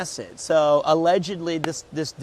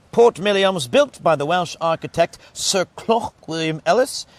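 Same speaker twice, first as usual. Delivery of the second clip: projected booklet read-out; reading aloud; 5 dB louder than usual. Real, not acted. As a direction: read it out loud for the viewers.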